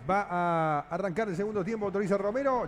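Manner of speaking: rapid radio football call; live football play-by-play. Acted. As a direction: call the kickoff as a radio narrator. Kicks off second-half live call.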